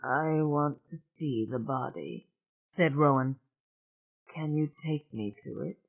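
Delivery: small, hoarse, quiet voice; calm but worn thin. Acted. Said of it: "her voice was hoarse and small".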